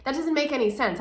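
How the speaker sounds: loud, frustrated disbelief; exasperated inner rant. Retold or imitated. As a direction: rant like it makes no sense. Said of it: "I would always think to myself".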